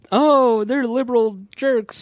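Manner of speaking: high, loud caricature of an indignant critic; mock outrage. Disowning the Colbert-hater stance, mock outrage.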